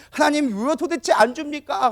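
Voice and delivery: high, drawn-out mock complaint; aggrieved plea. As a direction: protest to God as the wronged wife. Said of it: "또 억울해가지고". (억울한 듯 높고 길게 따지기)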